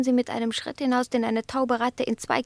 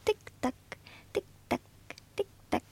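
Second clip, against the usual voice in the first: soft ticking; 11 semitones higher, 8 dB quieter, much faster than usual. Acted. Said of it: "Im Takt meiner Zunge".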